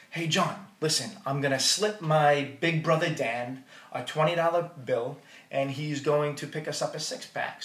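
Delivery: ordinary delivery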